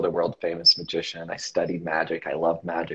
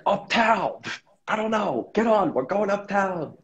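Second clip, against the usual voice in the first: much higher, brisk voice of a driver waving him on; a retold driver in a raised, hurried voice; hurried bus driver; 13 semitones higher than usual. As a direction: play the driver telling him to just get on. Bus driver urging him aboard.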